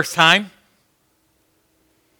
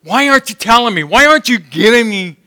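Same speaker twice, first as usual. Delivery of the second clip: venting to God; 3 semitones higher than usual. Retold or imitated. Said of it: "He was venting to God".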